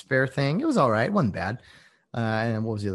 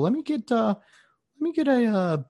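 mocking customer; 7 semitones higher than usual. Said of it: "you see people".

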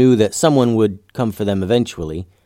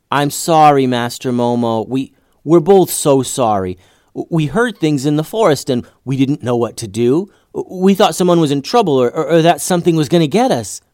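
nervous apology; 5 semitones higher, 4 dB louder than usual. Acted. Boy apologises to stern master.

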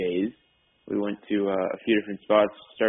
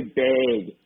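"bag" drawn out Minnesotan style, like "beg"; Minnesotan accent; 2 semitones higher than usual. Retold or imitated. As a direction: say a long, slow Minnesotan "bag". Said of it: "I have a horrible Minnesotan accent".

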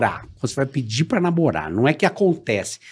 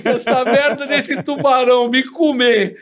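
acted panicked thought; 7 semitones higher than usual. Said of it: "eu falava assim".

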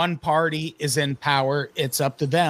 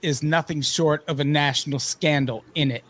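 mock British accent. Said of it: "a stereotypical British accent".

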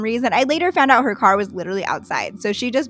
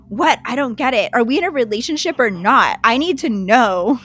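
imitating a pushy, demanding date; mock aggressive demand; 3 dB louder than usual. Date demanding to know relationship status, mock aggressive. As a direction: press for an answer, mildly hammed up. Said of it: "she was wildly aggressive".

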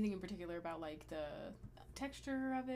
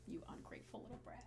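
wicked stepmother; 3 semitones lower, 11 dB quieter than usual. Pretend. Scolding her younger self.

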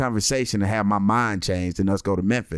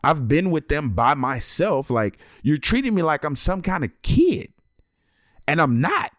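higher, sarcastic and put-upon; mock offended dad, pitched up; sarcastic inner rant; 5 semitones higher than usual. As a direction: pretend thanks with sarcasm. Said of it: "thinking to myself".

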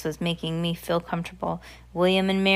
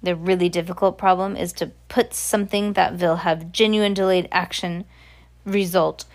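put-on lightly accented, emphatic witch; lecturing witch. Voices the Grand High Witch.

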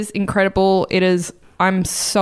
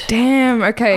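whispered; 4 semitones higher than usual. Real, not acted. Hushed impressed reaction.

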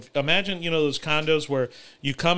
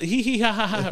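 giggling imitation; 7 semitones higher than usual. Mimicking their giggles and laughing.

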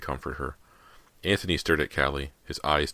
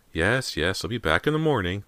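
higher-pitched, resigned assent; sighing; 5 semitones higher, 4 dB louder than usual. A narrator's reading. Housekeeper agrees to return for father, sighing. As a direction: give in with a touch of weariness.

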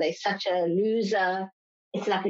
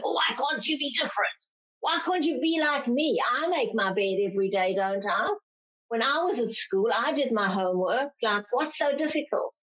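put-on higher pitched, pleading parent nagging a child; exasperated parent; 4 semitones higher than usual. Parent at a struggling child, mock exasperated pleading. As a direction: sigh it out at the kid who won't be like you. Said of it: "we're walking around going".

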